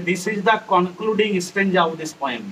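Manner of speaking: very slow, word by word English; slow dictation. Shown as a demonstration. Teacher dictating the poem's line slowly to students. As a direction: spell each word out slowly for the class.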